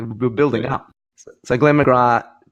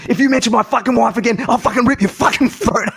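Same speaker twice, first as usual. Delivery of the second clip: angry retold threat; 10 semitones higher than usual. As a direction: spit out the threat like a furious cricketer. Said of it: "And he goes".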